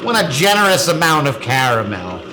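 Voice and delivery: mild excited yell over the food; screaming. Real, not acted. Cook announcing the caramel to partner, mildly screaming. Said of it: "Stop screaming".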